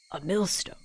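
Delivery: put-on low, soft British old lady; old woman dropping her voice for the word; old person, British. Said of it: "all my old people voices turn British".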